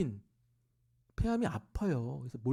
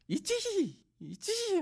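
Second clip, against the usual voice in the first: much higher put-on voice, eager; eager mother imitation; 3 dB louder, much slower than usual. Mother answering the preacher's question, high and eager. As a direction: nod it off quickly like an eager old woman.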